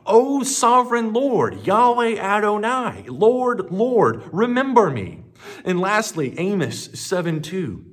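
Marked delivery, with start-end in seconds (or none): 0.1-5.2 much higher, louder anguished cry to God; Samson's last desperate prayer, loud anguished cry. Acted. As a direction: call out to heaven in desperate need. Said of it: "Samson cried out to the Lord".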